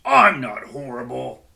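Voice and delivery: indignant. Acted. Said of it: "Bear was indignant".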